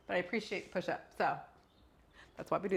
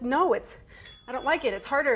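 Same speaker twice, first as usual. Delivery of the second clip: put-on higher, louder, lightly whining child; a hint of a frustrated kid pushing back; whiny daughter; 4 semitones higher, 5 dB louder than usual. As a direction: mom imitating her daughter refusing to start the drawing. Daughter voiced in story.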